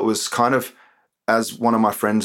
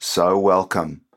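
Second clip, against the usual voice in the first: spoken word performance; 3 semitones higher, slower than usual. Acted. Poet performing his political poem for the podcast, declamatory and sarcastic.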